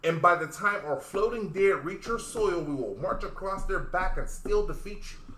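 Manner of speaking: slow, weighty, solemn declaration; dramatic delivery. Shown as a demonstration. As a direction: deliver it slow like a grave threat. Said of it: "Deliver it again".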